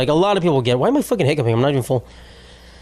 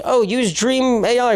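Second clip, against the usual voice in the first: mock ad voice; 8 semitones higher, slower than usual. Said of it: "Every video is just".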